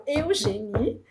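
"Eugenie" drawn out as "eh-oo-zheh-nee"; laughing, stretched "Eugenie" with two opening vowels; wrong Brazilian pronunciation. Shown as a demonstration. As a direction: say "Eugenie" slowly with E and U separate. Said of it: "e não eu".

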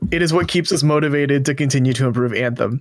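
quick, throwaway read of the rest; unbold, rushed. Retold or imitated. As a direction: rattle it off like small print.

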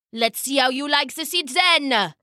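put-on tyrant's voice, taunting; menacing king. King about to throw duck on throne, menacing taunt. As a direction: threaten the little upstart as an angry king.

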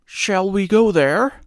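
high, light voice for a straw man; Scarecrow voice. A narrator's reading. Scarecrow pointing out a cottage to Dorothy, high and light. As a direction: play the cheerful Scarecrow up high.

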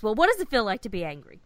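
fast and loud, too much inflection; overacted Data. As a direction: android line read with too much feeling. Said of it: "I'm giving way too much inflection for Data".

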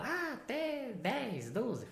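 put-on high, soft, drawn-out child voice; pupils answering. Pupils answering their teacher's question about age, soft high mock-child voice. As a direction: mimic children guessing, very slow and high. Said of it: "Aí eles falam".

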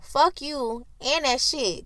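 slow, dragged-out defiance; defiant. Retold or imitated. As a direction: spell it out slowly like you mean it. Defying white coworkers, acted.

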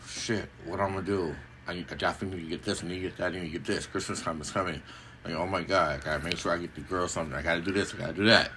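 rushed, hushed worry racing through a to-do list; frantic inner voice. Retold or imitated. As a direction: rattle it off fast and quietly like a panicking parent. Panicked parent inner monologue.

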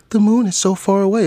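high, loud anime-style melodrama; hammed-up dreamy proclamation; overdramatic. Main character answering a simple question by gazing moonward, overdramatic. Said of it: "just be dramatic as fuck".

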